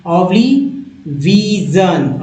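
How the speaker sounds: ओब्लिविजन drawn out slowly, each syllable clear; teacher pacing ओब्लिविजन for students; slow read-along. Shown as a demonstration. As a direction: say ओब्लिविजन slowly so the class can repeat. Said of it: "कैसे पढ़ना है मेरे साथ पढ़िए".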